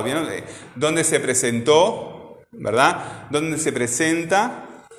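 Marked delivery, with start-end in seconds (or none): 0.3-2.4 slow, leaning on the ending of "presentó"; past tense stressed. Shown as a demonstration. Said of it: "me la dijo en pasado". 3.3-4.9 slow, rising on "presenta"; present tense stressed. Shown as a demonstration. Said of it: "cómo lo dirían ustedes en futuro".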